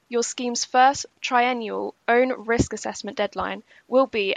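slow, careful delivery for a key deadline; deliberately slow. Real, not acted. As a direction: take it slowly so it can be followed. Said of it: "I'll say this slowly".

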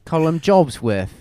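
hammed-up British quote; mock British accent. Reading article quotes for laughs, mock British accent. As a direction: read it in a fake British accent. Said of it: "adopting fake British accents".

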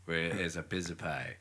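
low-pitched, lightly voiced politician impression; understated impression of a caller; Donald Trump. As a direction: insist in a low mock-politician voice. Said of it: "He's like".

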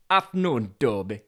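Yorkshire delivery driver. Acted. Driver greeting wedged Toby, Yorkshire accent. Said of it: "it'll be another Yorkshire".

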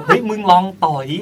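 loud, high-pitched egging-on; excited retold dare; acted urging. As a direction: urge a friend on, high and loud. Acted friend urging in retold story.

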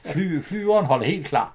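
slow imitated platform announcement; station announcer. Retelling a departure call for Nakskov, imitated announcer. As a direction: call the train out slowly.

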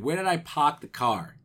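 "park" said as "pahk", r dropped, "car" keeping its r; Boston "park". Retold or imitated. Podcaster re-enacting the film's line, "park" as Boston "pahk". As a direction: say "pahk" for "park" but leave "car" intact. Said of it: "He's going".

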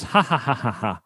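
nurse's ha-ha laugh, retold; imitated laugh. Nurse hearing he's scared of needles, imitated laugh. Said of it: "She goes".

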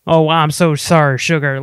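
a light mock Southern accent. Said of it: "that Southern accent".

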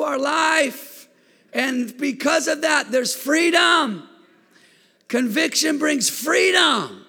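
full-force pulpit preaching. Acted. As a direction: lift the room with it. Preaches, voice raised.

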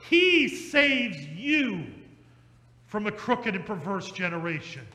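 very slow, heavy sermon close; preaching. Acted. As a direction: drive home "He saves you". Preaching climax.

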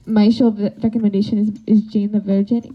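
put-on careful Soviet-accented presenting; halting Soviet-boy voice. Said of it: "Soviet boy starting it up".

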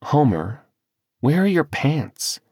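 high, slow puzzled question; surprised. Acted. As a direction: ask it in disbelief. Wife asks husband, surprised.

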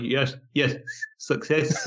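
imitating whistling sibilants in "Yes, yes, success"; whistled S. Mimicking the actor in The Rock, whistled S on "Yes, yes, success". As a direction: let the S in "success" whistle through. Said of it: "he kind of whistles through while he's talking".

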